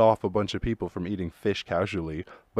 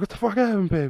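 mock shock; 11 semitones higher than usual. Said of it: "I was like".

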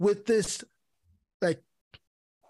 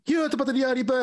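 imitated Jamaican patois, pitched higher; Jamaican accent; 5 semitones higher, much faster than usual. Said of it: "turned the accent on and everything".

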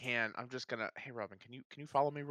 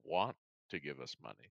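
lightly voiced radio announcer; smooth radio voice; 4 semitones lower than usual. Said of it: "This is my smooth radio voice".

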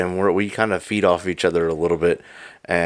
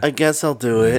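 lightly put-on wussy giving in; mock a friend's reluctant agreement; teasing imitation of a hesitant yes; Joe voice; 3 semitones higher than usual. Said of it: "I sound like a wuss".

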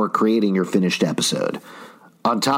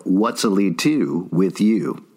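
"What's Alitu with you" drawn out slowly and lower; slow pun "What's Alitu with you" said low; 4 semitones lower, slower than usual. Pretend. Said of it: "I'm just kidding".

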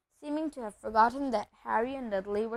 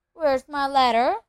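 loud demand; 3 semitones higher, 9 dB louder than usual. Acted. Harry confronting uncle.

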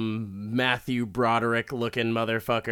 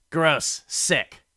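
louder repeat of "Gross", spat out; a sharp, loud disgusted "Gross"; 4 semitones higher, 5 dB louder than usual. Real, not acted.

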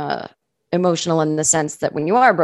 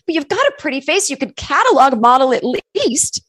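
higher, fast, patronising lady; condescending rich woman; 8 semitones higher than usual. Retold or imitated. Club member pitying the waitress, higher and patronising. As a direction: pity her sweetly. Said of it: "this woman went".

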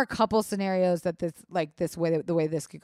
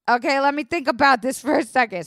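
laughing stall; 5 semitones higher, 5 dB louder than usual. Retold or imitated.

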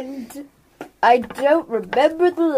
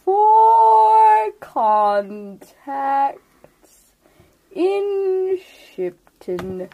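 a lightly voiced ancient turtle, slow and drawn out; slow old turtle; slower than usual. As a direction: speak as an unhurried old turtle, letting each word sink in.

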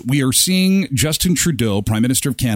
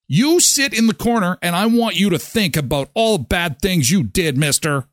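scolding parent; 4 semitones higher than usual. Pretend. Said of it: "Like you would a four-year-old".

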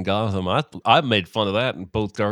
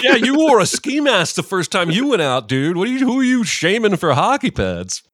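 mock scolding; 10 semitones higher, 7 dB louder than usual.

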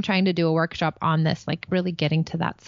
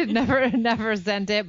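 laughing; 3 semitones higher than usual. Real, not acted. Laughing at unsent letter.

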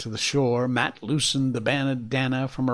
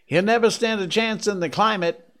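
loud, higher call over distance; shouted back; 8 semitones higher, 5 dB louder than usual. A narrator's reading. Matt on the gangplank calling back to Scott, shouting. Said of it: "he shouted back".

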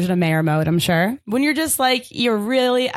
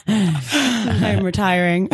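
laughing; 3 semitones lower, much slower than usual. Acted. Resigned mayor bit.

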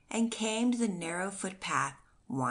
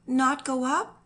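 higher, louder desperate pleading; frantic protest; 6 semitones higher, 6 dB louder than usual. A narrator's reading. Grieving wife insists on going to him, frantic and louder. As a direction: she must get to him. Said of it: "she asked quickly".

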